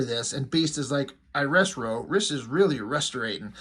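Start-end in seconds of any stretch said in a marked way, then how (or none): 1.3-3.5 lightly voiced talking dog; a hint of cartoon dog garble; Scooby-Doo. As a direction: put R sounds at the front of words. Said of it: "he's talking kinda like Scooby-Doo".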